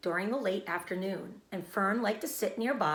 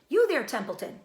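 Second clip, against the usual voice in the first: louder, higher call; 6 semitones higher, 5 dB louder than usual. A narrator's reading. Pig calls out to the rat, loud call. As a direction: call across the yard. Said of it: "he called".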